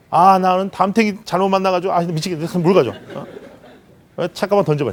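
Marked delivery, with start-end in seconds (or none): 0.1-2.9 put-on grumpy, annoyed teen voice, griping. A speaker acts out a kid coming home from school: imitating a kid back from school. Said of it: "아주 건강한 아이를 제가 한번 표현해 볼게요".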